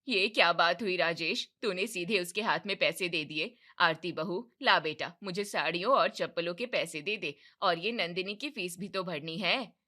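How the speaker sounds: a mother put out, demanding her share; indignant mother. Acted. Mother protesting to son, loud indignation.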